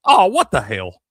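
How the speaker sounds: high, loud mock indignation; imitating three-year-old. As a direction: exclaim like a startled little kid. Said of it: "Cal just looks up and goes".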